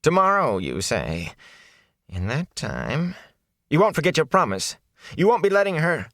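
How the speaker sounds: high-pitched character voice, dipping then urgent; wheedling, insistent peddler; anxious peddler. Acted. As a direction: press for reassurance, pitch leaping. Peddler presses for the promise.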